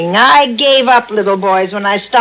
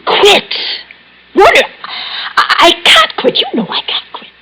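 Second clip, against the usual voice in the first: panic; 11 semitones higher than usual. Acted. Patient panics at being told quit.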